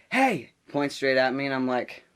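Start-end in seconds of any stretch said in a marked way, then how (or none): 0.1-0.5 high, loud, sudden "hey"; mock angry call. Substitute pointing at student with headphones, sharp shout. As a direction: imitate a teacher catching someone out.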